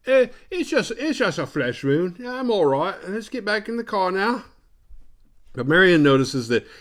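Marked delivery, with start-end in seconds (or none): 0.1-4.4 high, loud put-on voice; hammed-up brushing off of a wound; dazed wounded woman. Laura with a head wound, hammed-up dismissal.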